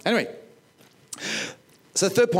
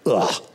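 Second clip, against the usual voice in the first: dry heaving; 6 semitones lower, 3 dB louder than usual. Pretend.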